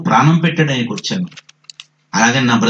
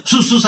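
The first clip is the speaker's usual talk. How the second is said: short, sibilant shooing sound; imitated herding call; 9 semitones higher than usual. Shepherd steers sheep the other way, imitated herding call. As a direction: shoo the sheep with a quick double call. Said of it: "అనాలంతే".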